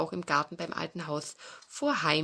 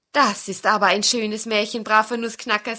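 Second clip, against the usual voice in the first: put-on bright eager child, louder; lively child Peter; 3 semitones higher, 8 dB louder than usual. Peter thanks the nutcracker, eager child's voice. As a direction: play an excited little boy.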